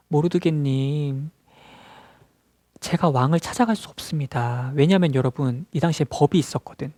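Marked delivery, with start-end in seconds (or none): 0.1-4.7 slow, drawn-out address in character; lightly voiced queen declining a request; queen replying. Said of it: "에스더가 이렇게 답변했어요". (길게 끌며 답하는 왕비 말투)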